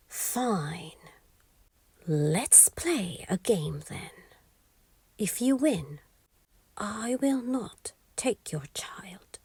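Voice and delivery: a hint of a sly goblin whisper; lightly voiced scheming imp, hushed; sly little imp bargaining in a hush; whispery imp. Imp proposes a game.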